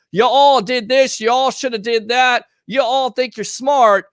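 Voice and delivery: imitating a condescending poster; mock condescending. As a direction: sneer it like a Facebook know-it-all. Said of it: "it sounds condescending to me".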